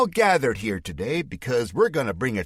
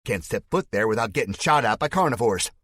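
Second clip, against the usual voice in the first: Spike's fake Southern accent; 6 semitones higher, 5 dB louder than usual. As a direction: denounce him to the crowd in a put-on Southern voice. Villain accusing hero before crowd.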